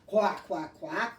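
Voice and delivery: a lightly voiced big daddy duck; daddy duck quack. Shown as a demonstration. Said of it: "or maybe a big daddy duck".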